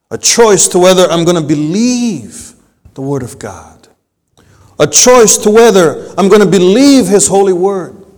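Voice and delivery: climbing pulpit fervour; full-force preaching. Acted. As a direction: preach it harder with each line, up to a peak. Preacher builds to a peak.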